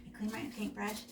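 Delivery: muffled behind a hand; hand over mouth. Real, not acted. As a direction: speak through your palm. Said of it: "I'll cover my mouth".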